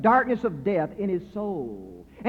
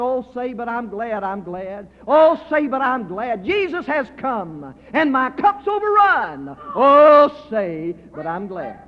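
joyful exclamation; 2 semitones higher, 6 dB louder, slower than usual. Retold or imitated. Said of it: "that night saying".

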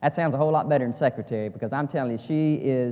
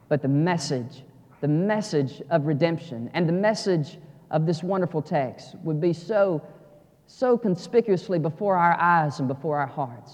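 an earnest prayer that starts strong and then softens; pastor's prayer; 2 semitones higher than usual. Acted. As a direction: pray aloud for the congregation. Leads the congregation in prayer.

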